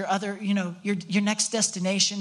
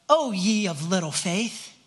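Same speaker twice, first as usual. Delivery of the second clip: condescending; 3 semitones lower, slower than usual. Retold or imitated. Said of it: "we kind of speak down to the disciples".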